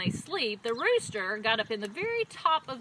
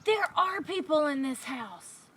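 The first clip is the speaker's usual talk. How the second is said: startled donkey; 5 semitones higher than usual. A narrator's reading. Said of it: "and he said".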